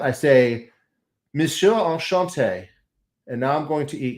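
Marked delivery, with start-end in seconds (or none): 1.3-2.7 lightly put-on French accent, drawn out; playful French greeting. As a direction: greet the pastry in slow, mock-courtly French.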